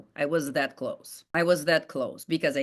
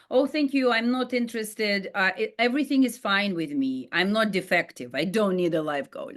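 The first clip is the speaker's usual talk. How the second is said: dismissive stranger. Retold or imitated. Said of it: "the other favorite one was like".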